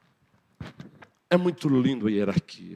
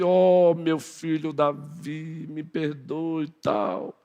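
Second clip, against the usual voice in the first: slow, hushed fake apology; oozing false humility; insincere; 3 semitones higher, much slower than usual. Saul faking an apology to David, slow and hushed.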